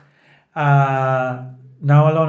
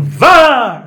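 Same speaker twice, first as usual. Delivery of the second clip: shouted; 9 semitones higher, 7 dB louder than usual. Shown as a demonstration. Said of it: "He's saying".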